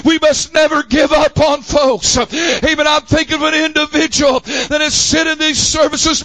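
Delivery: driving pulpit cadence, phrase after phrase; fervent preaching. Real, not acted. Preacher telling the church never to give up on folks, fervent. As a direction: press on urgently without letting up.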